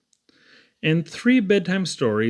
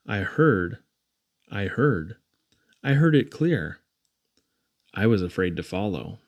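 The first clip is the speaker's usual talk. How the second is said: fearful hush; 6 semitones lower than usual. Acted. Haunted child who stayed behind.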